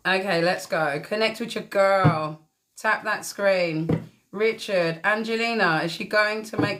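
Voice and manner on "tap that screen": "Tap" leaned on, "Tap that screen" stretched slow; slow emphatic. Real, not acted. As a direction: spell it out word by word. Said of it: "Don't forget to tap that screen".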